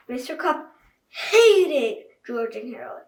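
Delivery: amused reader; laughing. Real, not acted. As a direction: giggle while reading. Laugh heard in line.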